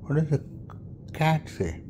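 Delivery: hushed. Acted. Parent quizzes toddler, hushed.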